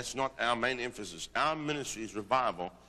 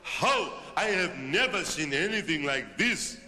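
higher, louder awestruck cry; awestruck interpreter; 4 semitones higher, 5 dB louder, slower than usual. Retold or imitated. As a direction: voice the weeping interpreter's astonishment. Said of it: "fell to the ground weeping and crying".

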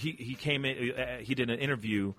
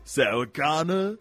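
put-on slow, hammy Austrian accent; terrible Terminator-style Austrian accent, rising; Arnold accent. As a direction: draw it out in a bad Austrian accent. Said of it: "mine is terrible".

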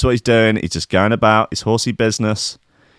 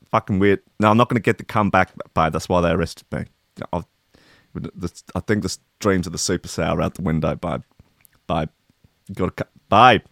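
schmoozy hollywood agent; faster than usual. Pretend. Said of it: "imagine having to phone your wife about that".

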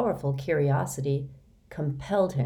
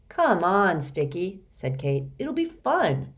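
cheerful coaxing; 2 semitones higher than usual. Acted.

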